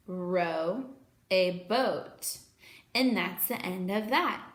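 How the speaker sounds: slow, sing-song rhyme; poem recitation. Acted.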